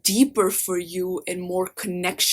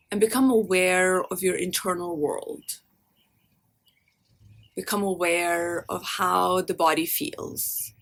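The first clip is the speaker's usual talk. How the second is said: guided meditation. Acted. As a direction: lead them gently inward, leaving space after each phrase.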